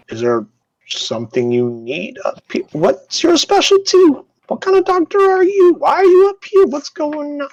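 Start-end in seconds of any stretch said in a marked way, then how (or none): 2.7-7.5 flustered guard. Acted. Flustered guard questions doctor.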